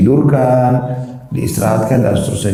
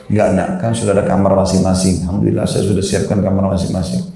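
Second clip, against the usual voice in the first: put-on coaxing a child to sleep in their own room, gently; reassuring parent, lightly voiced; gentle coaxing; 2 semitones lower than usual. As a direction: patiently sweet-talk the little one. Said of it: "Saya rayu baik-baik".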